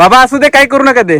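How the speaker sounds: calling out, high and loud.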